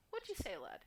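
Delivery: put-on Scouse, harsh on "lad"; imitated Scouse accent. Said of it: "you give that harsh L and A".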